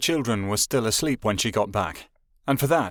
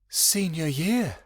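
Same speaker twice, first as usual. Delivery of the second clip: wonder; 4 semitones higher, slower than usual. Acted. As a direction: savour it with a touch of wonder. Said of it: "Vera thought with wonder".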